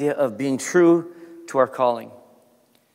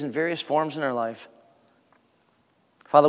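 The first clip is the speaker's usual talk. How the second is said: prayer. Acted. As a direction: pray gently over the congregation. Pastor leads closing prayer.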